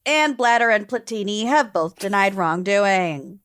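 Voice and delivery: measured newsreader delivery; news anchor voice. Acted. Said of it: "your news anchor voice".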